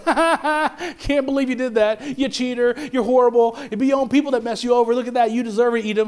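gleeful taunting, laughing at the fallen; mocking gloat. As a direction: gloat like a smug onlooker who got his wish. Mock gloating over enemy's fall.

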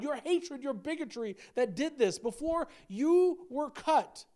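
loud, rising list of sins hammered home; preaching at full force. Acted. Preacher confronting the congregation, forceful and loud.

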